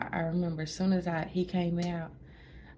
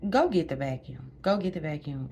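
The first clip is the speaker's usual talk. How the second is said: brisk order; 5 dB louder than usual. Retold or imitated. Nurse ordering the vacuum.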